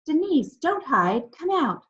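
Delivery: high, loud calls across the hill; calling out. A narrator's reading. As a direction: shout for her to come out. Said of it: "Then we started to call".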